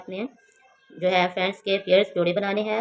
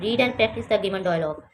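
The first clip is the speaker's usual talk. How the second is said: slow careful reading; much slower than usual. Shown as a demonstration. Teacher reads English instruction.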